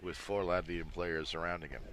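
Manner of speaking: energized commentator tracking an attack; live play-by-play. Real, not acted. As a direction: call the action as it unfolds, with punch.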